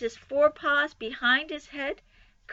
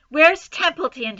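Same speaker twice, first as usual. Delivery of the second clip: high, loud demand; 6 semitones higher, 8 dB louder than usual. Acted. Wilbur demanding Templeton, loud and high. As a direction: demand the rat now. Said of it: "he demanded".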